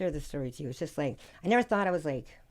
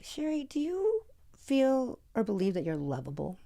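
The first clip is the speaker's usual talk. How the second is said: slow, higher therapist voice; imitated therapist; 6 semitones higher, slower than usual. Therapist questioning her client about being lovable, imitated slow voice. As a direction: ask carefully, imitating a therapist's probing question. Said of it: "so my therapist".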